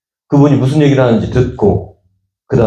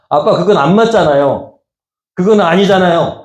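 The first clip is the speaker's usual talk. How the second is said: put-on child protesting; 5 semitones higher than usual. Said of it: "라고 얘기하는 게 낫더라고".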